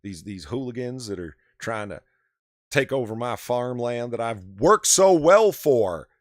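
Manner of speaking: lightly put-on Southern drawl, stretched at the end; imitated Southern drawl. Mocking an actor defending his farmland, imitated Southern drawl. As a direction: mimic an actor attempting a Southern accent. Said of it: "trying to do the Southern drawl".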